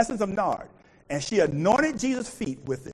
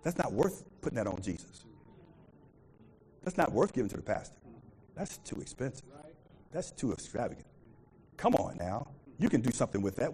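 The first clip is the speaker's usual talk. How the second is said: mock Judas complaint; 9 semitones lower, 10 dB quieter than usual. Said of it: "he says".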